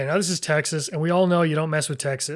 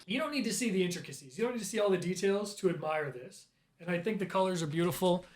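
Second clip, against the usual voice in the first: hushed; 9 dB quieter than usual. Real, not acted. Drops to hushed admiration.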